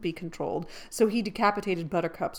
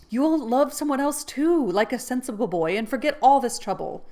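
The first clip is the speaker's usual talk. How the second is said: higher, louder; coaxing reassurance; 6 semitones higher, 7 dB louder than usual. Acted. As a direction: talk him out of it. Jo consoling.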